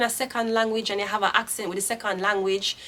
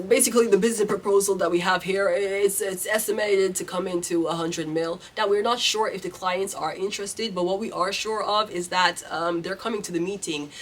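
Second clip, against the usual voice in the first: brisk, smooth boardroom pitch, faster than her own talk; lightly put-on business English, quick and smooth; polished business voice. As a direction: rattle it off like a fluent executive. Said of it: "you have to say".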